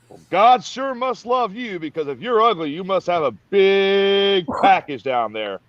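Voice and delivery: lightly voiced sergeant teasing; drill sergeant taunt.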